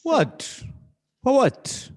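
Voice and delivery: high, loud "What? For what?"; asking a question. Shown as a demonstration. Teacher playing a curious friend at the bazaar, high loud questions. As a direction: fire off the short questions up high. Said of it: "आप आगे".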